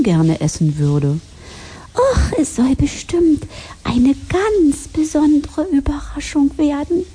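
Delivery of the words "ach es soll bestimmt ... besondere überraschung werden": hohe, helle Spatzenstimme voller Vorfreude; vorfreudiger Spatz. Acted. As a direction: piepsig und gespannt auf die Überraschung. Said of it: "freute er sich". (hoher Spatz, der sich freut)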